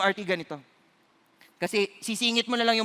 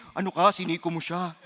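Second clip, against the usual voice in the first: Holy Spirit's rebuke; 6 semitones lower, 4 dB quieter than usual. Retold or imitated. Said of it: "naririnig ko pa yung Holy Spirit".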